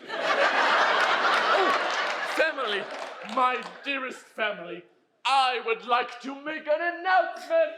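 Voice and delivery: grand speech. Acted. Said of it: "George is making one of his speeches".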